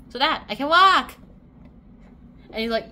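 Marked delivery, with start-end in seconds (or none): 0.1-1.1 triumphant. Acted. Acted proud demonstration of walking.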